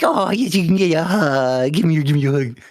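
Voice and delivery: high, eager puppy voice; squeaky puppy offering a hug; cute pup voice. Pretend. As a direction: coo it like an excited puppy. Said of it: "I'd be like".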